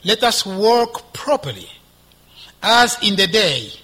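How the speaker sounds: loud, measured proclamation of scripture; scripture reading. Acted. Preacher reads the passage to the congregation, scripture reading. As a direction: read it out emphatically, phrase by phrase. Resumes reading verse thirteen.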